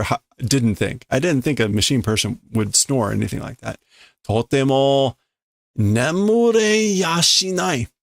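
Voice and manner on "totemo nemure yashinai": higher, slow complaint, lightly voiced; a touch of sleepless frustration; exasperated character. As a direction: groan that sleep is impossible. Character can't sleep for snoring.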